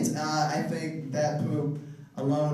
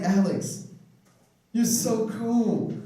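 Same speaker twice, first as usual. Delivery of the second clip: drawn-out, higher mock flattery; slow flattering recruiter; 4 semitones higher, much slower than usual. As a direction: stretch out "you're so cool" like a sweet-talker. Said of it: "she was just like".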